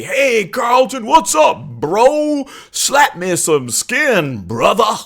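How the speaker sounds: high, loud, hammed-up stereotypical Black accent, slowing on slap me some skin; mock stereotypical Black accent. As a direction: mimic white friends faking a stereotypical Black accent. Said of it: "this hideously, uh, stereotypical black accent".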